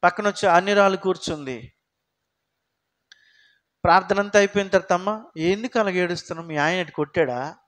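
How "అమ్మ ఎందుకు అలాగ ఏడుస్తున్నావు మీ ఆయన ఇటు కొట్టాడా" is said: curious neighbour. Retold or imitated. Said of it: "అంటుంది ఆమె".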